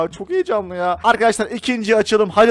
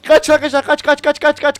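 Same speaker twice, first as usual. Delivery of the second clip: frantic shout; 6 semitones higher, 4 dB louder than usual. Real, not acted. Urging flight from zombie.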